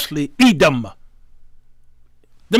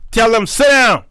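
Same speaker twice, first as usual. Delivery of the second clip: higher, louder command; sharp rebuke; 4 semitones higher, 4 dB louder than usual. Acted. Preacher telling false prophets off, raised rebuke.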